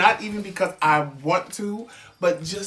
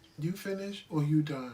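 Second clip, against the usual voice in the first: put-on cool, unbothered tone, calm and quiet; 3 semitones lower, 7 dB quieter than usual. Retelling how she answers while he yells: imitating her own calm reply. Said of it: "I just go like this".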